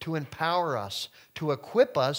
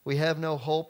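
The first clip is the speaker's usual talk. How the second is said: high, loud hammed-up lament; theatrical despair, higher and louder; mock wailing; 6 semitones higher, 4 dB louder than usual. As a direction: wail like the crowd has lost all hope.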